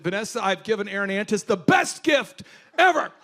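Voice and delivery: laughing excited shout to his wife; gleeful boast. Retold or imitated. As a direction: crow about the prank.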